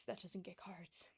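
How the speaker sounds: soft, slow, unvoiced whisper; a quiet, slowed, conspiratorial whisper; whispered aside. Real, not acted. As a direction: drop to a wry whisper. Wry aside at sentence end.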